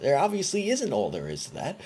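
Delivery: high, loud, incredulous complaint; exasperated. Real, not acted. Ranting to listeners about his repeated line, exasperated. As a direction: protest it loudly, pitch climbing.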